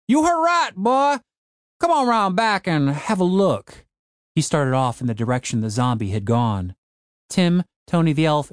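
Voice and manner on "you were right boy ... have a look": light up and call them along gladly; delighted old man. A narrator's reading. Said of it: "The old man's face lit up".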